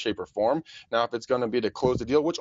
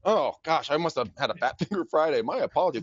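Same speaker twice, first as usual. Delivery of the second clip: mock innocent caller; 4 semitones higher than usual. Feigned confusion in cold call.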